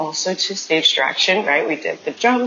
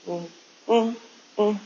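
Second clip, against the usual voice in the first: angry humming; 3 semitones higher, 5 dB quieter than usual. Shown as a demonstration. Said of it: "I had to do some humming".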